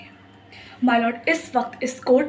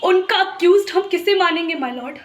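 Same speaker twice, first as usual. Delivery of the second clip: higher-pitched, heightened courtroom appeal; impassioned plea; 4 semitones higher than usual. Acted. Lawyer asking the judge who is to blame for deaths, impassioned plea. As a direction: plead their losses with raised intensity.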